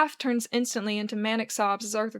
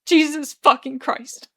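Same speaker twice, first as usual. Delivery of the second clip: slow, higher-pitched tearful curse; whimper; 4 semitones higher, 8 dB louder, slower than usual. A narrator's reading. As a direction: whimper it out, drawn slowly. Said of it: "Arthur whimpers".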